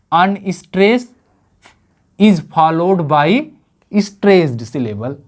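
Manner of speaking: very slow, each word laid out; slow teaching delivery. Shown as a demonstration. Teacher to students defining the iamb, very slow and deliberate. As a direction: spell it out word by word for the class.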